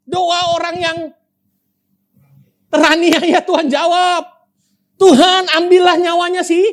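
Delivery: high, pleading prayer to God, acted by the preacher; Hana's bitter prayer. Preacher voices Hana begging God against her rival, high and pleading. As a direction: plead with God for justice, half in mock. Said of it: "Hana bisa berdoa".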